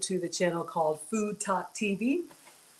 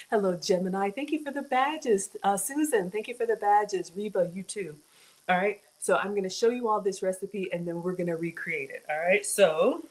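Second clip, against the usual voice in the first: infomercial host. Acted. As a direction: pitch it like a TV ad. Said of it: "it's gonna sound like an infomercial".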